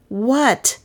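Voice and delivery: sudden high startled question. A narrator's reading. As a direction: jolt up in surprise. Startled by the screech.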